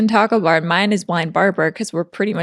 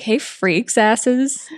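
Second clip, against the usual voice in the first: mock announcer; much slower than usual. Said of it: "'cause you would be like".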